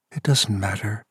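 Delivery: soft seductive purr. Acted. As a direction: purr it to draw him in. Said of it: "she purred".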